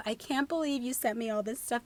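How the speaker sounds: normal talking voice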